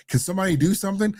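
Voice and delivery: high, fast, whiny mock plea; mock helpless woman. Imitating the woman on the plane, high and fast mock plea. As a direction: squeak it out like a panicky passenger. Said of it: "that woman was like".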